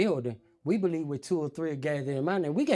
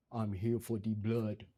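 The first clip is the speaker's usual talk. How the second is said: deep, low voice kept soft and hushed; 6 semitones lower, 7 dB quieter than usual. Retelling what a voice said at the door at four in the morning, deep voice. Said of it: "I hear a deep voice say".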